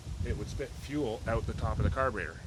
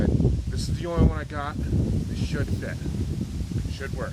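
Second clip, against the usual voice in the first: loud retold clerk; 6 semitones higher, 10 dB louder than usual. Parts guy handing over kit.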